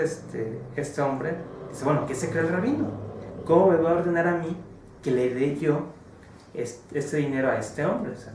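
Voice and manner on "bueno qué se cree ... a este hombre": higher, louder indignant rich man; mock outrage at being ordered to pay; indignant outburst. Rich man scoffs at the rabbi's note, indignant.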